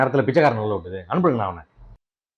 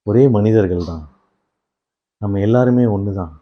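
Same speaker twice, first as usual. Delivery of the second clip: lower, measured sermonising; mock-solemn speech; 4 semitones lower than usual. Player preaching unity after conceding a goal, mock-solemn. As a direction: preach peace with pauses between phrases.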